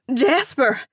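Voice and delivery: high startled screech of the name. A narrator's reading. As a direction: shriek it in shock. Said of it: "I screech".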